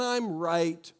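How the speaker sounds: insistent. Retold or imitated. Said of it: "we say things like".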